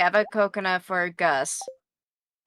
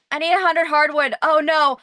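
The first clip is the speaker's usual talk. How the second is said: panicked rush; 4 semitones higher, 7 dB louder than usual. Real, not acted. Rushing before shop closes.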